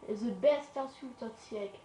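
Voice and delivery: slow, jokey put-on English accent in broken English; hammed-up English accent, drawn out; playful fake English accent; mock English accent. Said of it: "Avec mon accent anglais".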